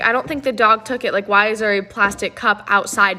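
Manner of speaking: lightly voiced doubting father; skeptical dad. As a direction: answer as a doubting dad, only lightly acted.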